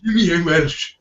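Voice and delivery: very high, loud mock Welsh exclamation; Welsh accent. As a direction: squeal it in a hammed-up Welsh accent. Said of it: "just in his Welsh accent".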